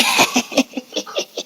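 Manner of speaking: imitated wheezy, soft cackle; little troll laugh. Imitating the little cousins in the back, snickering like trolls. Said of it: "they laughed like little trolls".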